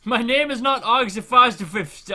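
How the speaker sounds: loud, slow mock protest; slow, loud indignant correction; mock indignant quote. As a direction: drag it out like an offended gamer. Mock quoting streamer's complaint.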